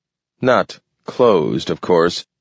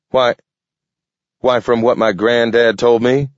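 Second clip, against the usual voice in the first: stutter; 4 semitones higher than usual. Acted. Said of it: "The wolf's stutter lasted one split second".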